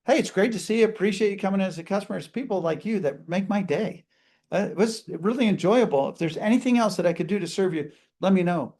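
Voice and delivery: upbeat and quick, genuinely glad; enthusiastic greeting. Shown as a demonstration. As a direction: greet the customer like a friend. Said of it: "I mean".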